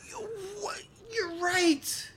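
sudden high-pitched disbelief; surprised. Real, not acted. Host realizing the guest's wife was in Parasite, surprised. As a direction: jump up in pitch, caught off guard.

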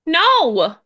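high, loud scared no; frightened. Acted. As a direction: blurt it out in fear. Terrified girls after the bang.

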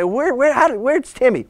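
puzzled parent. Acted. Parent coming home without Timmy, mildly alarmed. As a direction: act out a parent hunting for the kid. Parent looking for missing child.

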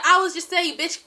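loud, high retold protest; mock pleading. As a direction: imitate a boyfriend hastily backpedaling. Man backpedals in retold quarrel.

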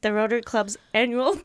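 laughter breaking through; fighting the giggles; trying not to laugh. Real, not acted. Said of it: "I'm trying to keep a straight face".

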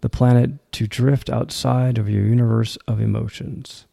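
deliberate poetry reading, firm line openings; poem recitation. Acted. Host reads the poem Greener Sides to listeners, poem recitation. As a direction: recite it in phrases, pausing after each line.

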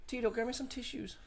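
high, soft mock-tearful plea; hushed falsetto, hammed-up emotion; a famous pop singer. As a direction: overemotional pop-star imitation, half laughing. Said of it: "Fucking with his soft voice".

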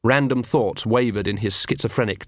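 usual speaking voice

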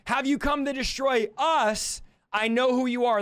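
mildly acted outcry; crying out. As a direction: cry it out as the possessed man. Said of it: "cried out saying".

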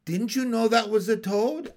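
high, loud, disbelieving question; exasperated rising question; incredulous scolding. Acted.

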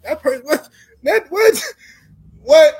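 high, loud incredulous "what?"; disbelief. Real, not acted.

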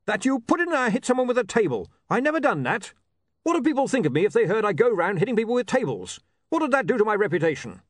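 high, plaintive tough guy; aggrieved barbarian. Acted. Barbarian protesting a misprint to the editor, aggrieved. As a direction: complain as if your good name is ruined.

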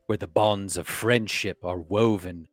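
grand theatrical declamation; hammy stage actor. Acted. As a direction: proclaim like a herald. Reads in Shakespearean English.

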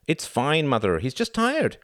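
put-on high child's voice, insisting; protesting boy. A narrator's reading. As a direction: reassure Mother in a high, pleading voice. Boy protesting to his mother.

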